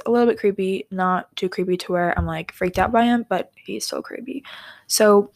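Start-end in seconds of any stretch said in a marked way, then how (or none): 4.9-5.3 whisper. Real, not acted. Starting the creepy story.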